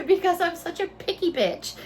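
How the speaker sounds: self-mocking laugh while talking. Real, not acted. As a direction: giggle through the confession. Laughs at herself.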